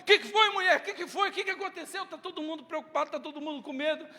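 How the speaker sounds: high, quick worried questions; anxious questioning. Acted. Disciples asking Mary what happened, high anxious.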